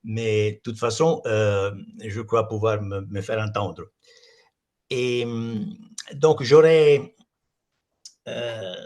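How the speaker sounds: Italian speaker's accented French; non-native French, Italian accent; foreign accent in french. Real, not acted. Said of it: "excusez-moi mon français".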